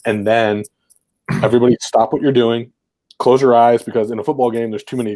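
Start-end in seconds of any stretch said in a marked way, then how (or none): 1.4-3.8 louder call to the huddle; firm coach's call. Retold or imitated. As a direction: call the team to stop and listen. Coach calling team to order.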